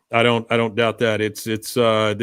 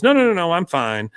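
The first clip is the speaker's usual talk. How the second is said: higher hurried mock reassurance; lightly voiced Peggy; 5 semitones higher, 3 dB louder than usual. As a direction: brush it off like a chirpy mom. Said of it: "Peggy breaks in and goes".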